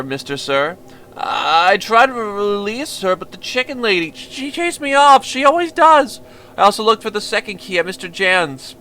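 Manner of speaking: nervous simple-minded fiddler, apologetic and eager; timid stammering boy. Acted. Violinist pouring his heart out to the visitor, timid stammer. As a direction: stammer out your excuses to the stranger. Violinist begs stranger to stay.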